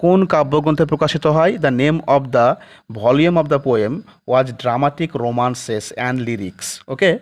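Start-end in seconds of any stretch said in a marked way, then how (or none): 1.6-6.7 slow, word by word, for students to write down; slow dictation. Shown as a demonstration. Teacher dictating a definition to the class, slowly. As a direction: dictate each word so they can copy it.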